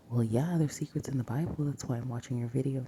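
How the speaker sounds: whispered mock viewer retort, quick; imagined viewer. Host voicing a viewer's objection about secrets, quick whisper. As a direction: lightly imitate an impatient viewer in a hurried whisper. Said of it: "You're like".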